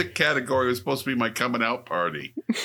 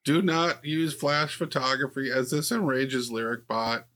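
theme park ride announcer voice; cheesy amusement park PA voice; 4 semitones higher than usual. Pretend.

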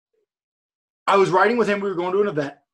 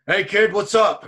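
slow, louder gruff greeting; Steve Austin on speaker; 3 semitones higher, 6 dB louder, slower than usual. Retold or imitated. Retelling Steve's phone greeting to the kid, slow and loud. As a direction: drawl out a casual hello. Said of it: "pushes it on speaker".

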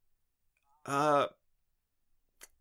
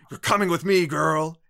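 loud, higher hammy villain shout; cartoon villain; 6 semitones higher, 9 dB louder than usual. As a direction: bark it like a seventies cartoon baddie. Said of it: "sounds like a cartoon villain".

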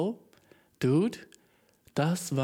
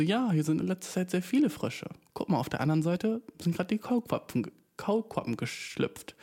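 higher child, lightly voiced with grown-up intonation; erwachsen klingendes Kind; 4 semitones higher than usual. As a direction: talk like a child being very adult. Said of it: "ihre Aussprache und Betonung war sehr erwachsen". (leicht angedeutetes Kind, erwachsen betont)

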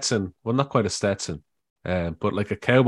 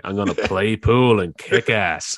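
slow swaggering boast; slower than usual. Retold or imitated.

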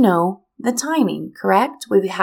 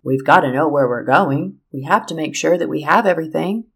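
lower, logical brother-in-law; 3 semitones lower than usual. Retold or imitated. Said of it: "he's very logical".

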